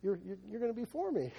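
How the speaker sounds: a hint of someone who gets it wrong; mock misreader. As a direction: play a listener who misreads it happily. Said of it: "I started showing it to people".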